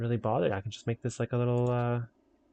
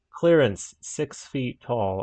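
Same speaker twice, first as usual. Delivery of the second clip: slow, louder sign-reading voice; announcing the bridge clearance; mock announcement; 6 dB louder, much slower than usual. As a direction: read it out like an official sign. Posting a road sign.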